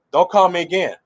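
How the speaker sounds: firm retelling in a natural register; meaning it. Retold or imitated. Preacher repeating the woman's warning, meaning it. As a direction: repeat her warning seriously, without the falsetto. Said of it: "She mean it".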